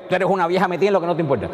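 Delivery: put-on scolding a nosy old woman with contempt; rude insult. Shown as a demonstration. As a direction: snap it as a real insult. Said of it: "la entonación es lo que hace".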